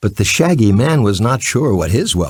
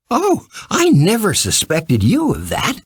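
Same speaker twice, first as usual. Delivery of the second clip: sheepish admission; 9 semitones higher than usual. A narrator's reading. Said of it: "Dorothy had to admit".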